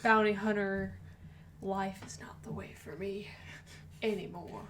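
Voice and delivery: a weary gunslinger with a hint of southern accent. Riffing as retired Boba Fett, in a soft southern accent. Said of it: "Boba Fett has a southern accent now".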